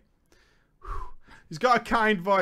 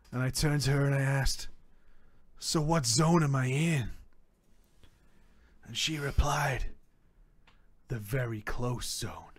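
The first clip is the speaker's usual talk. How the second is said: dramatic low reading; 8 semitones lower, 7 dB quieter than usual. A narrator's reading.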